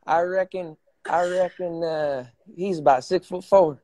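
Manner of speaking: playful Texan country twang; mock Texan speech; Texas country accent. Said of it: "that's like a Texas accent".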